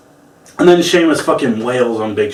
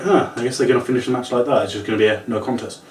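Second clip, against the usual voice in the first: resigned mutter; 3 semitones lower, 5 dB quieter, faster than usual. Retold or imitated. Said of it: "And I was like".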